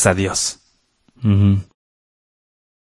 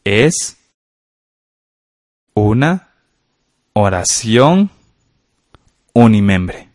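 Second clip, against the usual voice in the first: dictating with long pauses between words; word-by-word dictation; much slower than usual. Shown as a demonstration. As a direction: give one word at a time, pausing while they write. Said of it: "en la línea en blanco escribamos".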